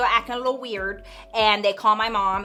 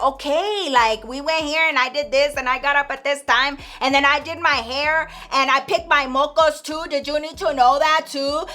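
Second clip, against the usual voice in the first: annoyed sass; 3 semitones higher than usual. Retold or imitated. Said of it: "she's like, giving her shit".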